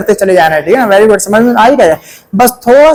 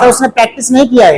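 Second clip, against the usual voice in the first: class chorus; 2 semitones higher, faster than usual. Shown as a demonstration. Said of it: "एक साथ".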